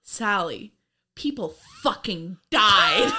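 slow, mock-stern scolding, building in force; hammed-up stern telling-off; stern reproach. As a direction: scold with drawn-out emphasis on the last words. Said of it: "look at her really sternly and say".

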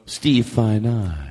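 slow, savored name; fancy name-saying. Shown as a demonstration. Host showing off the director's name with reverb, fancy. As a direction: linger grandly on each part of the name. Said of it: "said his name as fancy as we could".

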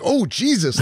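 mock shocked gasp. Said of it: "you're like".

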